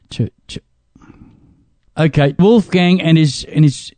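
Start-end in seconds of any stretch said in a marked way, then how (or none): 0.1-0.6 breathy whisper, stumbling over "Tur-"; whispered stammer. Real, not acted. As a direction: whisper the stuck syllable "Tur-" twice. Struggling with a name.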